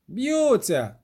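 put-on high excited yell of a street boy; boy's shout. A narrator's reading. Street boy yells the news to the crowd, high and excited. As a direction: call it out as you run off. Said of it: "крикнув один із вуличних хлопчиськ".

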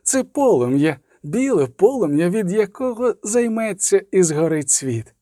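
slow, high incantatory prophecy; inhuman voice. A narrator's reading. Inhuman voice proclaiming the Elder Blood, cold and ominous. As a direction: intone it slowly, stretching each phrase. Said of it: "повторив голос".

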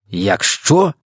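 високо, з питальним злетом у кінці; перепитай, не ймучи віри; здивоване перепитування. A narrator's reading. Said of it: "перепитав головнокомандувач". (здивовано перепитує)

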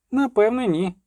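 high, insistent exclamation; crying out. A narrator's reading. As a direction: call it out with conviction. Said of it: "крикнув Любисток".

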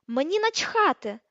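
slow, loud, high-pitched screech; shrieked retort. A narrator's reading. Hermione dismissing Harry's defence, shrieking. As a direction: screech it, stretching the words. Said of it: "вирискнула вона".

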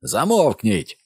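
high loud roar; officer roaring at everyone. A narrator's reading. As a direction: roar them into silence. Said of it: "заревів він так голосно".

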